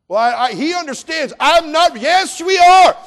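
very loud, high, impassioned pulpit cry; preaching at full force. Acted. Preacher crying out to the assembly at full force. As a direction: lift the congregation to the cross.

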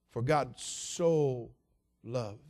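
slow emphasis. Real, not acted. Preacher slows on key phrase.

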